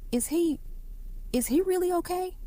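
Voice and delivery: high, hurried anxious plea; anxious worry. A narrator's reading. Darius asking the nurse about Marcus, anxious. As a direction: press for reassurance, afraid.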